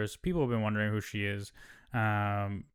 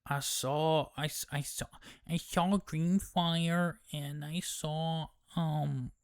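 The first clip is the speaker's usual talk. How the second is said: higher, soft, slow halting wonder; lightly voiced dazed girl; awestruck Rhaena; 5 semitones higher, 4 dB quieter, slower than usual. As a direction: stammer out what she saw. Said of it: "Rhaena's like".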